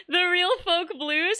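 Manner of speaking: amused, slow. Real, not acted. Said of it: "a really funny name".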